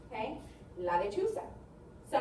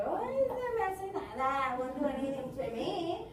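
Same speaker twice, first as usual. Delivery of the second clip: stumbling borracho. Acted. Stumbling drunk brushing off danger, slurring drawl. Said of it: "he's stumbling and he's zigzagging. You've seen those borrachos".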